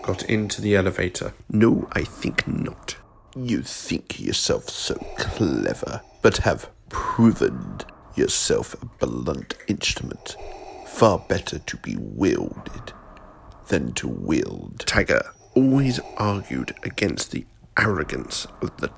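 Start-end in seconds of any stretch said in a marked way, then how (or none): 1.5-3.0 a lightly voiced, cold old Emperor scolding his apprentice; scornful ruler reproaching a failed servant; menacing Emperor. Emperor gives orders. 3.4-14.8 lower, softer, slow contempt; a hint of a sinister old master; low sinister scorn. Emperor lectures Vader.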